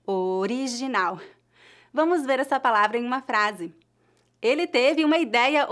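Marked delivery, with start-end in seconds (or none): 0.1-1.2 "original" drawn out slowly, R tapped, lower. Shown as a demonstration. Teacher modelling the word after water, tapped R. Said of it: "Essa pronúncia é similar ao flap T".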